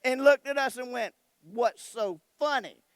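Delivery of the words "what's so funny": slow, louder stern challenge; wife confronting laughing husband and son; stern mother. Retold or imitated. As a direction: ask it like a mom with hands on hips.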